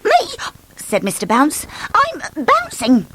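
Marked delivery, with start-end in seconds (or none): 0.0-0.4 high, innocent question; puzzled, pointing at himself; surprised Bounce. Acted. Bounce surprised at being scolded. 1.9-3.1 high, slow, stretched out; cheery Bounce. Acted. Bounce explains himself.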